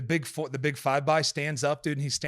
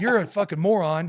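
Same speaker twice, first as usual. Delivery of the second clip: laughing insult; 6 semitones higher, 6 dB louder than usual. Retold or imitated. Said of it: "And he's like".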